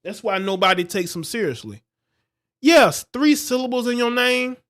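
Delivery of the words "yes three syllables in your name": mocking sarcasm. Real, not acted. Mocking the graduate's complaint.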